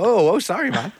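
mock-startled sorry as they back off; backing-off boyfriends. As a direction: boyfriends suddenly backing down, hammed-up high apology.

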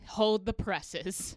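slow, drawn-out announcement; mock proclamation. Comic mocking men's outrage over stolen jokes, slow proclamation. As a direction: declare it with grand false gravity. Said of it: "when a guy does it, it's like".

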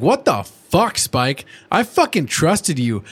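hammed-up scolding; angry pony rant at Spike; mock angry Twilight. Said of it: "She's like".

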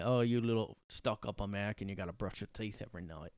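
mock British sneer at an American; British accent. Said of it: "'cause we're Brits".

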